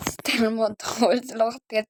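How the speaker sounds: gasping, laughing through it; breaking into laughter mid-sentence; trying not to laugh. Real, not acted. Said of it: "Là, je viens d'en perdre un".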